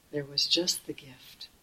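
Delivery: slow, soft whisper on the gift; hushed whisper. Real, not acted. Teacher whispering the point of giving to students, hushed. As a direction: drop to a reverent whisper.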